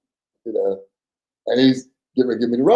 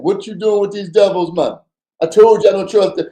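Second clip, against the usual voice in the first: angry rant; 7 semitones higher, 4 dB louder than usual. Retold or imitated. Angry partner ranting about devils.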